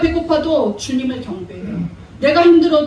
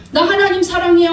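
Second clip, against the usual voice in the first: higher, louder, sing-song mock of a churchgoer's boast; mock pious claim; 5 semitones higher, 4 dB louder than usual. Preacher mocking a hypocritical believer, higher and louder. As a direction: parody the empty pious "사랑해요". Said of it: "하면서 큐티 안 하고".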